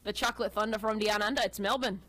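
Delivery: a hint of an Australian accent; lightly hammed-up Aussie; playful Australian voice; mock Australian. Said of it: "went to a land down under".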